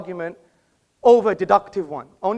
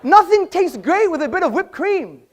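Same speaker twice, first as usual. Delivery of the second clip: high and louder, laughing through the words; laughing mockery; 8 semitones higher, 4 dB louder than usual. Real, not acted. Debater laughing at his own nothing-for-lunch joke, laughing. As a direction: laugh at the absurd idea of eating nothing.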